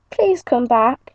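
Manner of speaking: slow, drawn-out plea; pleading. Acted. Jay begs the wolf to come back, slow pleading voice. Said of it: "she pleaded".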